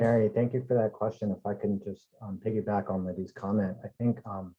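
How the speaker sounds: distant, off-mic sound; speaking too far from the microphone. Real, not acted. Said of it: "it sounds like you're far away".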